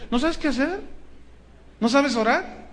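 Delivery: mock incredulous question. Shown as a demonstration. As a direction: toss "¿No sabes qué hacer?" back in a high, teasing rise. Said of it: "y no sabes qué hacer". ("¿No sabes qué hacer?" con tono burlón y agudo)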